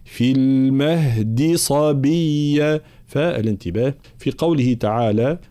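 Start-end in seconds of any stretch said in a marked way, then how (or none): 0.0-2.8 المهد slowly with a firm voiced d; strong dal. Shown as a demonstration. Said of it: "مجهورة شديدة".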